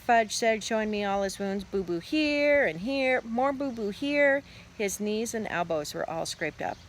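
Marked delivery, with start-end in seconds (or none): 1.6-4.4 put-on slow, high little-kid voice; pitiful toddler. A narrator's reading. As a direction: show each hurt like a small child. Toddler shows his wounds.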